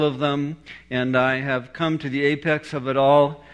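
lightly imitated self-important cool professor; super cool professor. Professor telling students he is past all religions, mildly super cool. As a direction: announce it with understated cool. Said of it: "he speaks in this super cool voice".

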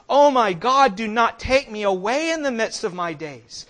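loud, impassioned plea to God; crying out in prayer. Acted. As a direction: cry it out as a desperate prayer. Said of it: "we cry out to him".

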